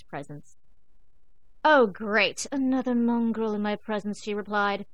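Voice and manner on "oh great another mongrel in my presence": haughty cat. Acted. Ginger sneers at the dog.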